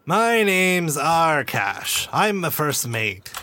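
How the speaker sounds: put-on slow, wheezy old man; frail breathless old person. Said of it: "long, wheezing breath as he sits down".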